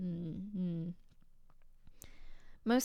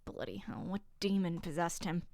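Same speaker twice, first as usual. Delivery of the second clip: attempted British accent; 5 dB louder than usual. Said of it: "I'm fighting either Southern or British here".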